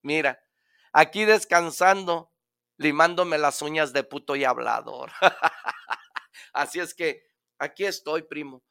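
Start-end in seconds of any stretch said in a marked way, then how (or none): 0.0-5.1 lightly voiced, laughing monkey; monkey excusing itself to the lion, half laughing; sheepish little monkey. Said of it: "el changuito le contesta". 5.2-6.2 breathy laugh. Real, not acted. Laughs after punchline.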